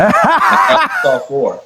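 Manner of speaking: drawn out through a laugh; slow and laughing at his own joke. Real, not acted. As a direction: stretch it slowly while laughing. Joke about his hand, laughing.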